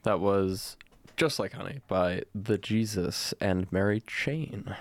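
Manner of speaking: smooth DJ outro; radio voice. Shown as a demonstration. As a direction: announce it like a radio DJ. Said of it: "It's really good radio voice".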